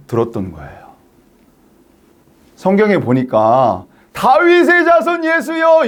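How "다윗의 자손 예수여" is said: high, slow, drawn-out shout; crying out. Acted. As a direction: shout it out to Jesus as he passes. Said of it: "이렇게 소리질러 외쳤잖아요".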